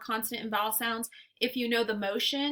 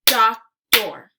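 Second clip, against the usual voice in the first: Doctor as loud "doc... tor"; Doctor with a clear gap between syllables; split into syllables; 10 dB louder than usual. Shown as a demonstration. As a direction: punch out both halves of Doctor separately. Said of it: "give you two parts to a word".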